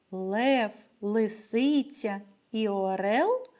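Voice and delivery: measured poem reading with pauses between phrases. Real, not acted. Teacher reciting a poem about the letter Л to children, measured recital.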